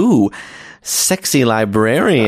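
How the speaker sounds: low, slow sultry purr; sultry librarian voice. Acted. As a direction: play the seductive librarian, slowly. Role-play game, sultry librarian.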